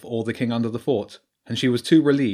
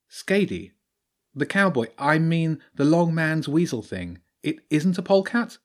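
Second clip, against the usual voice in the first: Jenny's voice; 6 semitones higher than usual. Acted.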